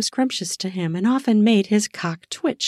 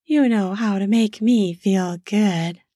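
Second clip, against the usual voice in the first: put-on breathy and drunk; slower than usual. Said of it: "Her words came out breathy and drunk".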